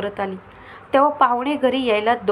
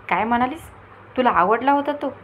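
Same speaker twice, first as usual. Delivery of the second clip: surprised aunt; 3 semitones higher than usual. Acted. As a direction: catch her out, amazed. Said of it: "मावशी आश्चर्याने तिच्याकडे बघत म्हणाली". (आश्चर्यचकित होऊन विचारणारी मावशी)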